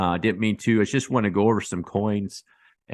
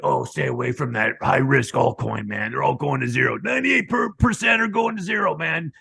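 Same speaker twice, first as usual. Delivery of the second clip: mocking cautious YouTuber; 4 semitones higher, 3 dB louder than usual. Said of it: "They're like".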